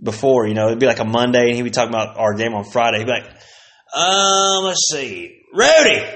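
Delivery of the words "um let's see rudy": high loud name called out; mocking teacher. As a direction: sing out the name like a snide teacher. Teacher roll call imitation.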